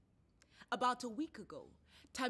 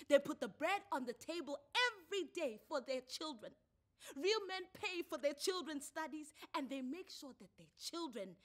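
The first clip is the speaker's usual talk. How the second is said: higher-pitched scolding rant; angry lecturing woman; 7 semitones higher, 5 dB louder than usual. A narrator's reading. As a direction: scold him in a high voice. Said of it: "Thuli said out loud".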